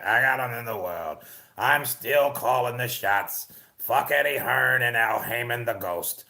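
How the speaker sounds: a hint of a cocky old man bragging, slowing down; Bob Arum voiceover. Streamer doing a Bob Arum voiceover for the chat, light old-man voice. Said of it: "give us your Bob".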